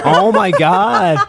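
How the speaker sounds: slow, loud, drawn-out disbelief; stunned oh my God. Real, not acted. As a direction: stretch it out, genuinely floored. Shocked reaction to Megan Fox joke.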